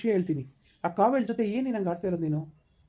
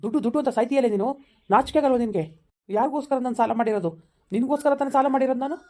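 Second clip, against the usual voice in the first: angry outburst; 3 semitones higher than usual. Acted. Fired lover confronting his greedy girlfriend, angry and raised. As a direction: hurl the blame back at her.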